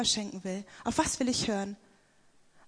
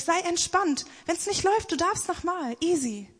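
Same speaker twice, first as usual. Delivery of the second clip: higher, breezy and easygoing; laid-back reassurance; 6 semitones higher, 3 dB louder than usual. Retold or imitated. Mock interviewer reassuring a nervous candidate, breezy and higher. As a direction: toss it off lightly, like nothing could go wrong.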